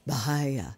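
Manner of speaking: Bahaya with an audible puff on the H; aspirated H. Shown as a demonstration. Teacher repeating the Sanskrit term, Bahaya with aspirated H. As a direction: let air through the H in Bahaya. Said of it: "with an aspirated H".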